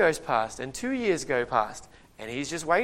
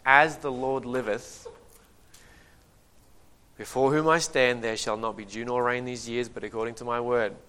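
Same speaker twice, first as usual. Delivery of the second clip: solemn prophet's decree. Acted. Elijah declaring drought before Ahab, solemn and firm. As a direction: pronounce it like a prophet's oath, firm and deliberate.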